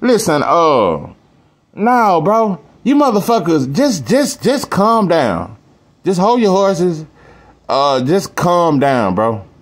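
high, slow, drawn-out Southern pimp voice. Pretend. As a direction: stretch every word out, cool and high. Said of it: "in my motherfucking rapper voice".

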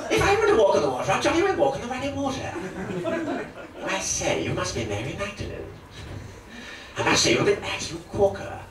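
high plummy upper-class cad; hammed-up posh cad voice; Terry Thomas impression. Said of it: "Terry Thomas as Christ".

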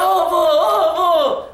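mock childish shout, laughing through it; kid yelling. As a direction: call out to grandpa like a gleeful kid. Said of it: "Aí ele começou a gritar".

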